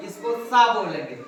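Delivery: "सा" with the tongue touching the teeth; dental sa. Shown as a demonstration. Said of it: "दंती सा है".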